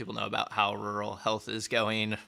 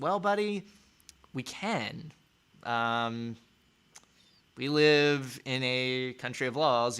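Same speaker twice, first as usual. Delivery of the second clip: put-on parent correcting a child; slower than usual. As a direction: answer a stubborn kid, pitched up and softening at the end. Parent answering the defiant child.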